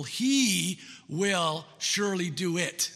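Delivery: slow, weighty reading of the verse; unhurried scripture read. Shown as a demonstration. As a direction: let each word land slowly. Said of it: "another emphatic word".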